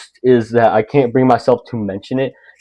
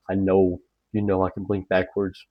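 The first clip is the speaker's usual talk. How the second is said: a hammed-up creepy murmur, much softer; mock eerie hush; 4 semitones lower, 8 dB quieter than usual. Reflection teasing a frightened viewer, in a mock eerie hush. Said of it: "She's like".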